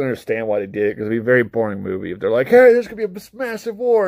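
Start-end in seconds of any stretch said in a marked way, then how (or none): 2.5-4.1 high, louder hammed-up hype; jokey high-pitched heralding; mock announcement. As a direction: announce it like big cartoonish news. Imagines movie announcing the battle.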